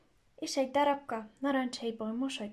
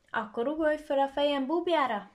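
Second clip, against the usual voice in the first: grinning; 4 semitones higher, 5 dB louder than usual. Acted. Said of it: "vigyorgott a róka".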